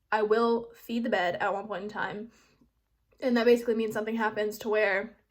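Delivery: talking around a hard candy; candy in the mouth while speaking; mouth full. Real, not acted. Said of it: "I have a Jolly Rancher in my mouth".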